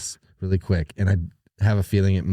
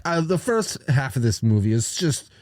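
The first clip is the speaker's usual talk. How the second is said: whiny nerd voice. Retold or imitated. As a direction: whine it out like a nerdy critic. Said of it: "Weasley whiny voice doing it".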